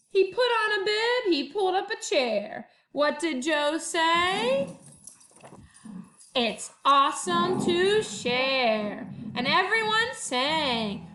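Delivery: lively picture-book read-aloud; reading to children. A narrator's reading. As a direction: read it to first graders with bounce. Teacher reads picture book aloud.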